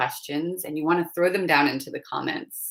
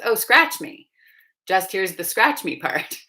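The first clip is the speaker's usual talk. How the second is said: higher and louder, playful imitation of the cat hearing only "scratch me"; mock cat voice; 4 semitones higher, 5 dB louder than usual. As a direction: tease as the cat who misheard "scratch me". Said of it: "and the cat goes".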